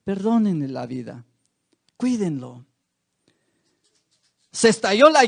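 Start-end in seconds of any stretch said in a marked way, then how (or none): 0.0-2.7 pleading. Retold or imitated. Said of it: "le suplicó a él".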